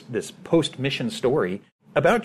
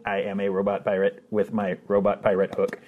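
lightly voiced robot pirate, even and mechanical; a hint of a toy robot pirate; 2 semitones lower than usual. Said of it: "getting to do the robot pirate voices".

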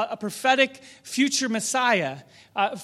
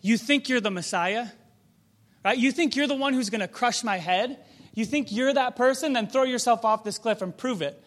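a lightly voiced Satan sneering at Jesus; mocking taunt; 3 semitones higher, 3 dB louder than usual. Satan mocking Jesus, daring him to jump. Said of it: "Satan is taunting Jesus".

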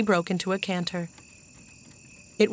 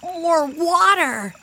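put-on high, drawn-out little boy's cry; stretched, high-pitched child voice; excited child's cry; 9 semitones higher, 4 dB louder, much slower than usual. A narrator's reading. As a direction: cry out slowly and high with delight. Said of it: "Benny cried".

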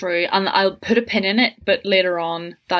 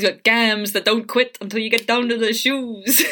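noir detective; 3 semitones higher than usual. Retold or imitated.

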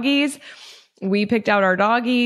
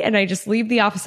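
ordinary delivery

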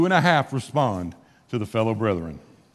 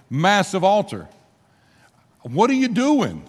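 raised, incredulous voice of worried priests; exasperated questioning; 4 semitones higher than usual. Retold or imitated. Chief priests confronting the tribes, incredulous and raised. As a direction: demand an answer in disbelief, pitched up. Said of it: "Their first question is the question you hear a lot".

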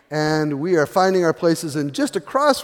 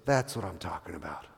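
quiet aside; 10 semitones lower, 14 dB quieter than usual. Retold or imitated. Bill's aside to the speaker.

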